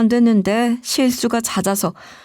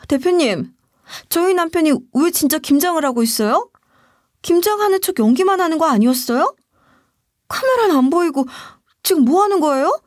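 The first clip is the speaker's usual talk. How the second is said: higher-pitched, bewildered demand for answers; baffled questioning; 7 semitones higher than usual. A narrator's reading. Employee asks boss why husband is making kimchi, bewildered.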